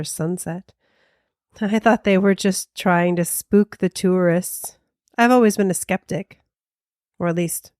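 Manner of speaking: story narration. Acted. Reads ghost story.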